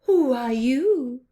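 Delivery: loud high owl hoot. Acted. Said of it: "hooted the owl".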